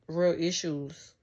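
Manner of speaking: slow, weighty real issues; slow, drawn out. Shown as a demonstration. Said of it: "But do you hear how that sound?".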